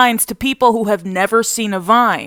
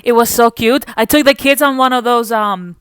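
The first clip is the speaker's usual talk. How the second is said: put-on Spanish-accented mother. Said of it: "My mother's first language is Spanish".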